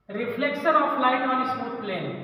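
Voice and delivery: very slow, each word laid out for students to write; slow dictation. Shown as a demonstration. Teacher dictating a new heading to the class, slow and steady. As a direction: read the heading slowly so the class can copy it. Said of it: "अगली heading बनाइए".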